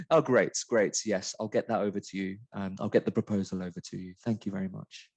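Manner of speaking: a hint of a posh English phone manner; middle class voice. A teacher imitating herself on the phone to a client, a light middle-class English accent. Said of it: "my middle class voice on".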